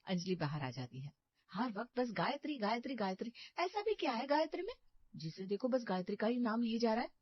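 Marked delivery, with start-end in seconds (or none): 1.5-7.1 irritated. Acted. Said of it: "क्यों चिड़चिड़ा रही हो".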